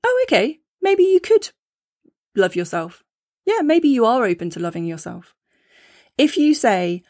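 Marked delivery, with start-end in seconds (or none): 0.0-5.3 the inner voice warming up to the idea; pleasantly surprised inner voice. Retold or imitated. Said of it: "your internal dialogue goes".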